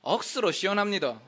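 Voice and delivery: Gyeongsang dialect. Shown as a demonstration. Pastor demonstrating Gyeongsang dialect, Gyeongsang speech. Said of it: "경상도로는".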